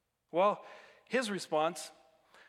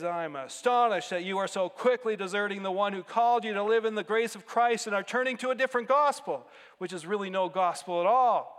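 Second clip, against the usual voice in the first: ripping into them; 3 semitones higher, 6 dB louder than usual. Retold or imitated. Preacher voicing Paul rebuking the Galatians, indignant and loud. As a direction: read Paul's rebuke with rising outrage. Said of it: "rips into them".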